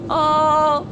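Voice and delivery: high squealing laugh; laughing hard. Real, not acted. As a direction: burst out laughing. Laughing hard at chase video.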